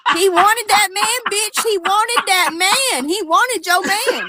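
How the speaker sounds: drawn-out teasing through laughter; slow laughing taunt. Real, not acted. Teasing her cohost about the scandal, slow and laughing. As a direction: savor each word, laughing as you say it.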